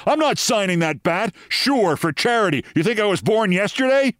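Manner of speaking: high-pitched, indignant outburst; retold angry eruption. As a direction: act out an offended star refusing, without shouting. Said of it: "he erupts at me".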